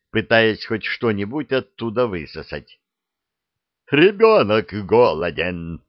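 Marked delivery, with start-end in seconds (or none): 3.9-5.8 louder alarmed exclamation; a touch of dragon panic; horrified. Acted. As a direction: blurt it out aghast. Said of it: "ужаснулся дракон".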